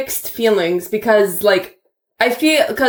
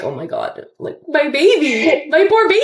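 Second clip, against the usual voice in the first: put-on poor baby; 5 semitones higher than usual. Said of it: "which I found like".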